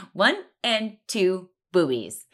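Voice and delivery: laughing through the words. Real, not acted. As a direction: let real laughter break the line. Laughing while retelling.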